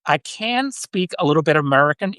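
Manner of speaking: clumsily faked American accent; amateur US accent, faintly Southern; really bad American accent. Shown as a demonstration. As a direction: attempt an American accent and miss. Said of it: "that's a really bad accent".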